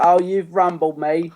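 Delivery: high, drawn-out posh imitation; mock posh accent. Podcaster imitating the girl's discovered-unicorn scene, very posh. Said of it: "she's talking very posh, isn't she?".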